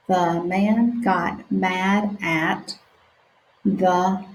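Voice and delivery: stretched-out sounding out; slow sounding out. Shown as a demonstration. Teacher reading slowly with children. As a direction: read each word slowly for beginners. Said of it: "let's practice together".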